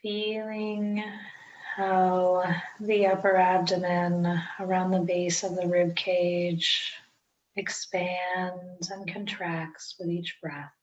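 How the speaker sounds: unhurried meditation guide with long pauses; guided meditation. Acted. Teacher guiding listeners into breath-centred meditation, calm guided-meditation delivery. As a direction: ease each instruction out, leaving space to breathe.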